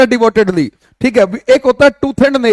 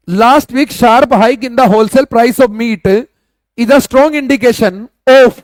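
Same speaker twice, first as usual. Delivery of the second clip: slow dictation; much slower than usual. Shown as a demonstration. Teacher reading the sentence again.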